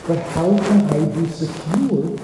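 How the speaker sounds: imitating an anxious wife, pitch lifted; retold tearful distress. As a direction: act out her pleading worry, without real sobbing. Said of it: "and she's crying".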